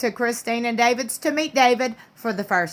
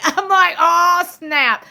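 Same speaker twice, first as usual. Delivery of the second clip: laughing; 6 semitones higher, 4 dB louder, much slower than usual. Real, not acted. Laughing reaction to gossip.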